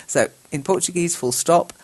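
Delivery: normal talking voice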